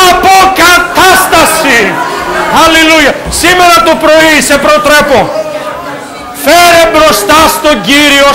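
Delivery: fast, rousing exhortation with shouts; preaching at full force. Acted. Preacher urging the congregation to stand and declare, fervent. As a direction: build the crowd into a fervent call to rise.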